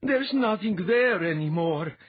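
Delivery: high, loud and slow, shaken; horrified, dragging each word out; shuddering voice. A narrator's reading. Latha shaken after hearing the void, shuddering. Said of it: "Latha said in a shuddering voice".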